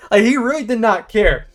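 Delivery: real amused outrage, slowed; laughing disbelief. Real, not acted. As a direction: laugh through it, can't believe it.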